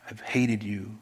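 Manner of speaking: hushed, breathy admission; whispered confession. Acted. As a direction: whisper it like a guilty secret. Acted confession to an estranged friend.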